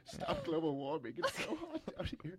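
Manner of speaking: mock biblical prophet. Continues prophet bit.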